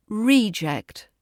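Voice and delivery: REEject, long stressed first vowel; stress on first syllable. Shown as a demonstration. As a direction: hit REE in "reject". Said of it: "as a noun".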